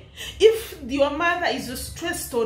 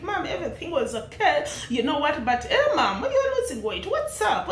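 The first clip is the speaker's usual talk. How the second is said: imitating the son. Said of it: "the son is like".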